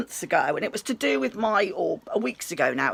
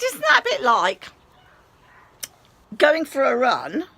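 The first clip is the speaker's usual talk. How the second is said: much higher and louder, slowing on run; incredulous question; 5 semitones higher, 6 dB louder than usual. Retold or imitated. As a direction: challenge her in disbelief. Arguing with receptionist.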